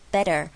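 BETTER with a flicked tongue, "bedder"; 舌头弹音. Shown as a demonstration. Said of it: "你的舌头是用弹的". (better中间用舌头弹一下)

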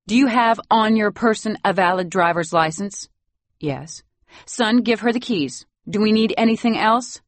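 crisp and commanding; brisk grandmother. Acted. A hint of the grandmother interrogating the nanny.

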